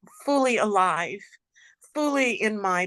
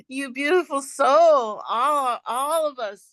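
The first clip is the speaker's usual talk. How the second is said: excited; 5 semitones higher, 4 dB louder than usual. Real, not acted. Joyful greeting after breathwork.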